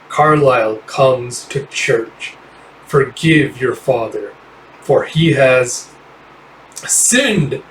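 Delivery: a giant savoring every word of the threat; slow menacing villain. Acted. Carlisle menacing the Lazari in the church, slow and drawn out.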